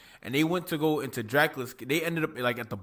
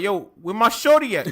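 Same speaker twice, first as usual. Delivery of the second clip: laughing street Dracula; 6 semitones higher, 6 dB louder than usual. Retold or imitated. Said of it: "He come back like".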